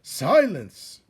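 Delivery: high, loud roar. Acted. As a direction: slam the room into silence.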